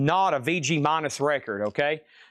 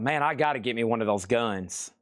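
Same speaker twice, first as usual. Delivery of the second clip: mock tough guy; 5 semitones lower, 3 dB quieter than usual. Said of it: "I was like".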